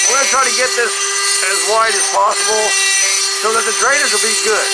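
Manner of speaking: muffled speech through a mask; talking through a mask. Real, not acted. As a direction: speak muffled behind a mask. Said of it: "I hope you can understand me through this mask".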